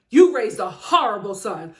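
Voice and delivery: hammed-up telling-off of the parents; mock scolding. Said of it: "to his mama, letting her know".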